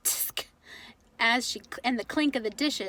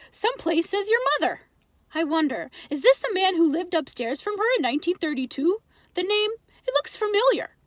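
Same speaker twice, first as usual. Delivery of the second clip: put-on higher, accented immigrant father musing; Pop's voice; 5 semitones higher, 4 dB louder than usual. Father reading the paper to his wife, curious and accented. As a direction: wonder aloud over the obituary as Pop. Pop reading obituaries aloud.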